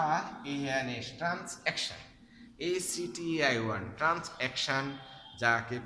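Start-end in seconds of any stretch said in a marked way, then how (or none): 1.2-2.0 "ট্রান্স্যাকশন" high, sounded as trans + action; spelling pronunciation. Shown as a demonstration. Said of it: "তাহলে বানান ভুল হবে না". 4.0-4.8 "ট্রান্স্যাকশন" sounded as trans + action; spelling pronunciation. Shown as a demonstration. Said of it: "তাহলে বানান ভুল হবে না".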